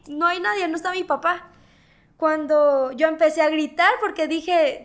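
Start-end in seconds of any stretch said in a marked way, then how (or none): 0.1-1.5 higher-pitched, mildly desperate plea; retold tearful plea. Daughter praying alone beside her collapsed mother, retold tearful plea. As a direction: plead as if recalling tears, pitch lifted. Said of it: "yo lloraba y yo le decía".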